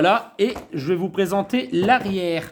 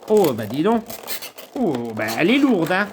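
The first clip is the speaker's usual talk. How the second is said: impressed surprise; 2 semitones lower than usual. Real, not acted. Unboxer feels how heavy the figurine is, impressed surprise. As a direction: react with real, impressed surprise.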